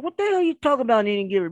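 fast, high mock outrage; indignant retort. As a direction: fire it back, half-offended and quick. Indignant retort to accusing friend.

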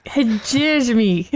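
"Hegemony" slow and stumbling, "hezhezh-mee"; careful hegemony. Shown as a demonstration. Repeating the word for friends in a pronunciation bee, slowly. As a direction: slowly attempt "Hegemony" and trip. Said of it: "we need you to repeat the word".

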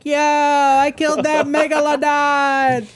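high, slow put-on pirate growl. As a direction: swagger like a pirate captain. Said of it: "I just talk like".

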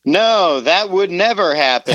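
mock-earnest denial, laid on thick; sarcastic. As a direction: deny it with obvious sarcasm. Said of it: "I hope that my sarcasm came through".

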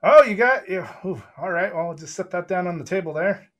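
high, loud flustered excitement; excited npc. Acted. NPC sees the gem and gets flustered, excited. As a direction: fumble for words, eager.

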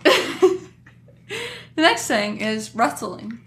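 slow lisping through a laugh; words slurred by a pierced tongue; tongue piercing lisp. Real, not acted. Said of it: "make fun of her lisp".

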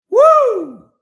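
huge high whoop; woo shout. Acted. Host celebrates Tank's quote with a loud whoop. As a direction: shout it like a cheering fan.

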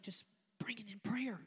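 a soft, hushed whisper of God's voice. Retold or imitated. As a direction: breathe it like a gentle divine answer. God answering in the story.

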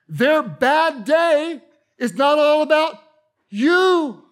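preacher hammering the point home, loud and high; emphatic preaching. Real, not acted.

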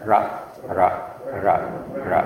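ra with a tongue tap; tapped r. Shown as a demonstration. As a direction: tap ra off the palate. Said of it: "if you tap your tongue right there".

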